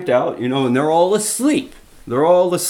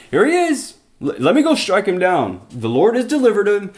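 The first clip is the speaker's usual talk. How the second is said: excited, higher hushed urging; eager urging; 6 semitones higher than usual. Retold or imitated. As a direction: egg him on to strike. Friend urging to kill Saul.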